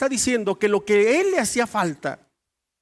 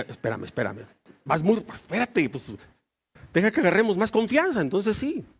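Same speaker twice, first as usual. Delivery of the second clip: dodging husband; 3 dB quieter than usual. Retold or imitated. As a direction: stall her with a nervous laugh. Esposo rehúsa dar clave. (esposo evasivo, más grave)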